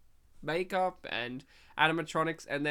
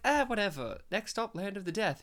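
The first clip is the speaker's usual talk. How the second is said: lightly acted blasé shrug, pitched up; 4 semitones higher than usual. Host imitating Whoopi Goldberg as Death, blasé. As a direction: toss it off as if nothing matters. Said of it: "She's very blasé".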